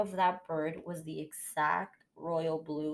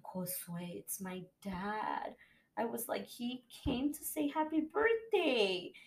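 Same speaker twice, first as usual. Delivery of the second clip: tearful; 5 semitones higher than usual. Retold or imitated. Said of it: "I started to cry".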